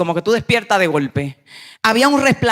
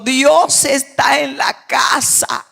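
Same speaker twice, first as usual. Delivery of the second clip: drawn-out, slow mock shout of excited kids; retelling the children's slow excited shout; 5 semitones higher, much slower than usual. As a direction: call it out slowly like children crying out. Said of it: "vocean dando gritos".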